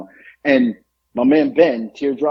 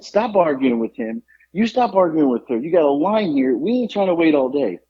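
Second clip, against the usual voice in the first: retold scolding, pitched up; impatient customer breaking up a squabble; exasperated scolding; 4 semitones higher than usual. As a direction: tell off both sides of an argument. Stepping into deli argument, scolding both.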